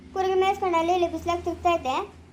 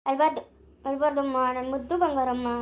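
put-on soothing baby; 4 semitones lower than usual.

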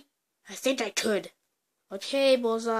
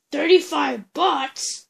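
louder outraged echo of the price; indignant repeat, a bit louder; shocked question; 3 semitones higher, 4 dB louder than usual. Pretend. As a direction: balk at the price.

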